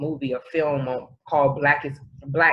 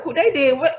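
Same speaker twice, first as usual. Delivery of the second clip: high, louder mock bafflement; imitating a baffled reader, pitched up; mock confused excitement; 10 semitones higher, 4 dB louder than usual. Mocking her friend's tweets, a high baffled voice.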